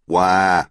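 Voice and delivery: half-hearted imitation of a crying baby; narrated fake "wah"; mock baby cry. A narrator's reading. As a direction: imitate a baby's wail, mildly. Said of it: "I did an impression".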